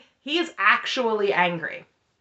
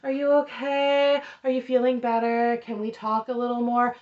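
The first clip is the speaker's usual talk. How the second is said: stilted check-in; 3 semitones higher than usual. Retold or imitated. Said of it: "weird sort of, like, stilted check-in".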